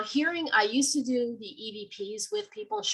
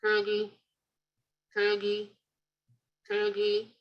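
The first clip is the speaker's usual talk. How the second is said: half-formed word on a level note; garbled murmur at speaking pitch, nearly a word; clearer muffled gurgle; slower than usual. Shown as a demonstration. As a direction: imitate a muffled name taking shape. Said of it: "then it starts getting better".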